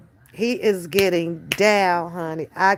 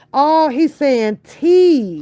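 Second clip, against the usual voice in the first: higher, louder and slow, dawning delight; delighted realisation; 7 semitones higher, 6 dB louder, much slower than usual. Real, not acted. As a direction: suddenly get it and light up. Realising what toddler means.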